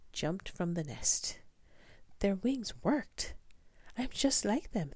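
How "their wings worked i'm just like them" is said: delighted she can fly too; excited. A narrator's reading. Stella Luna realizing she can fly: high excited voice. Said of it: "thought Stella Luna".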